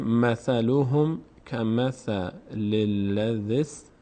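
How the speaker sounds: slow, drawn-out Quran recitation; teacher modelling the verse for students. Shown as a demonstration. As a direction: chant it slowly, word by word.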